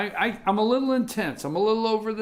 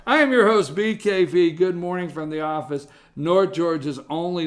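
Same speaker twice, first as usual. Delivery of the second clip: loud, upbeat radio host intro; host announcement; 4 dB louder than usual. Acted. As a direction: announce it like a morning show host.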